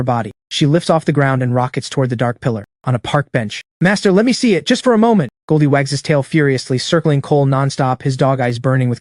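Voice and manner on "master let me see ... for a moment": high, eager pleading; excited begging. Acted. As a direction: beg like an eager puppy. Eager dog begging its master.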